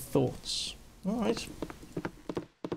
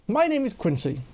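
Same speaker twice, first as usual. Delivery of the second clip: lightly voiced stiff, dismissive character; a touch of haughty warning; affronted Quincy. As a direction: send the intruder packing, mildly indignant.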